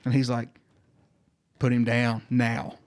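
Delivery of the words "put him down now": slow, deliberate command; measured, no-nonsense instruction; firm retold order. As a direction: mimic a medic's order, word by word. Medic orders frozen nurse to act.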